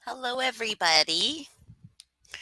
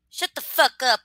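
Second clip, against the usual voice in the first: mock yell; 6 semitones higher, 6 dB louder than usual. Joking greeting yelled at chatter.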